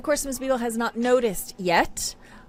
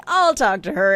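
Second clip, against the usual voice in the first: eager dad; 8 dB louder than usual. Acted. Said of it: "And he's like".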